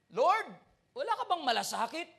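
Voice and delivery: loud, fast and accusing; a rude, impatient challenge to the teacher; disrespectful demand. Retold or imitated. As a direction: throw the complaint in his face. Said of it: "Oh, that's disrespectful".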